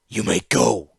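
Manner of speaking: hard and final, granite in "go"; a master repeating his dismissal, cold and stony. A narrator's reading. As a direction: say "You may go" like a closed door. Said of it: "There was granite in his stone voice".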